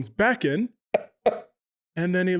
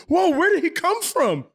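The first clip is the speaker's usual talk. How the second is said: surprised; 13 semitones higher than usual. Retold or imitated. Startled by zombie-like man.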